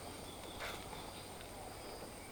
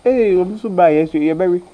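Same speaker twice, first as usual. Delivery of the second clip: loud, indignant outburst; loud protest; 8 dB louder than usual. Acted. Protesting to the other about relatives coming, loud outburst. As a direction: raise your voice sharply in protest.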